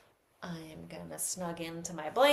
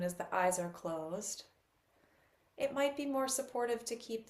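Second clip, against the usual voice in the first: softer, unhurried instructions with long pauses; guided meditation; 3 dB quieter than usual. Real, not acted. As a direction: gently guide listeners into settling the body.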